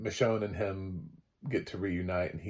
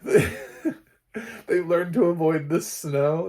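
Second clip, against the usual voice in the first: higher, louder, slowed by laughter; laughing, slow; 8 semitones higher, 7 dB louder than usual. Real, not acted. Vlogger joking to viewers about zombies, laughing. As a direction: giggle it out slowly.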